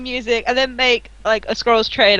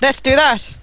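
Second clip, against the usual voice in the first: put-on Irish accent; 3 semitones higher than usual. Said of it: "I swear you went".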